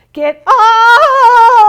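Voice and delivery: high, loud howled shout; dog howl. Acted. Simon howls at the cat on his bed. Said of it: "He howled".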